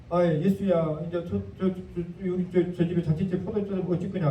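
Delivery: hesitant Jeolla mother's nudge; Jeolla-dialect mother. Retold or imitated. Mother stammering to her son about wine, in Jeolla dialect. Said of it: "우리 전라도 말로 하면 엄마가 그랬다".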